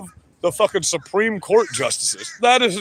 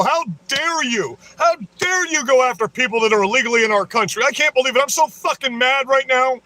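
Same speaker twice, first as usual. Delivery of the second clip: mock outrage; 2 semitones higher than usual. Streamer parodying his critics, hammed-up outraged whine. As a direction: parody a shrill protester losing it over Trump.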